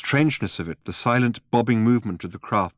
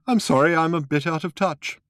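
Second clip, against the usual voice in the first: put-on old man voice; 9 semitones higher than usual.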